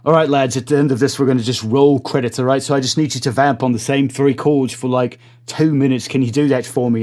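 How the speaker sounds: put-on director coaxing the band in a shaky British accent; bad British accent. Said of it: "Again, terrible accent".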